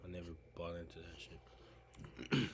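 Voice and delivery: slow, hushed whisper. Real, not acted. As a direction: lean in and whisper it like a secret. Confiding his disbelief in official story.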